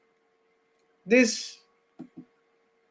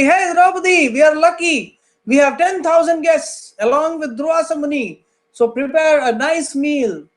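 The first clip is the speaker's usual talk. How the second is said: higher, bright announcing of good news; husband eagerly announcing guests to his wife; cheerful husband; 5 semitones higher than usual. Acted. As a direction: tell her the lucky news, pleased. Yudhishthira tells wife of guests.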